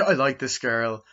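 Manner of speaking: chuckling as you start over; laughing restart. Real, not acted. Reviewer restarting his jealousy story after a joke, laughing. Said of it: "no, I'm joking".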